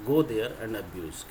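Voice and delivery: very slow, each word separated; slow teacher model sentence; slow dictation. Shown as a demonstration. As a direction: lay it out slowly so students can repeat. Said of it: "क्या बोलेंगे?".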